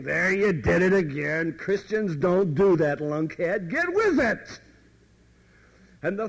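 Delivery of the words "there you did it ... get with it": lightly voiced nagging accuser, scolding; condemning voice. Inner accusing voice scolding the stumbling Christian, mild mock nagging. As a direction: jab at him like an inner critic. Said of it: "we hear this voice saying".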